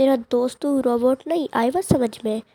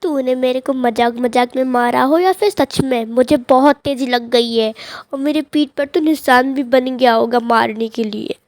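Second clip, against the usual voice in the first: loud, aggrieved telling-off; angry complaint; 5 dB louder than usual. Acted. Hurt friend protests being hit too hard, loud and angry. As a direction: raise your voice and complain.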